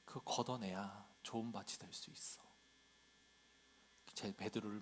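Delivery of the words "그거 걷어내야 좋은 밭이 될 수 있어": low, soft, gentle reproach; Jesus' heartfelt urging. Acted. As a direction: quietly urge a disciple you care about. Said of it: "베드로를 향한 예수님의 마음이에요". (낮고 부드럽게 타이르듯)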